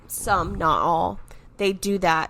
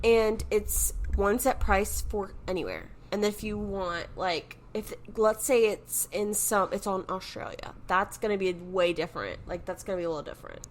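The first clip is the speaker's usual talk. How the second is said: distant, off-mic voice; speaking away from the mic; mic held too far; 6 dB quieter than usual. Real, not acted. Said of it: "Hold the mic closer to your mouth".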